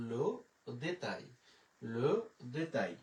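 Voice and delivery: French le détail, lo de-tai; French demo. Shown as a demonstration. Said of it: "তাহলে হয়ে গেল".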